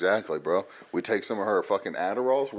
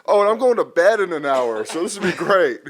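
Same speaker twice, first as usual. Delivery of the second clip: higher, louder cheerful customer; mock customer; 7 semitones higher, 6 dB louder than usual. Telling the cashier he's going to bed soon, higher mock cheer. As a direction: sell the excuse brightly.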